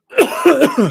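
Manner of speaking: loud cough, water down the wrong way; choking cough. Real, not acted. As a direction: cough through the choke. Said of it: "Just choking on the Wasser".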